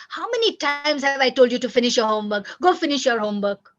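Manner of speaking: brisk mock nag, pushing the child along; nagging parent. Shown as a demonstration. Parent chasing a child about homework, nagging. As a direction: nag with mild exasperation.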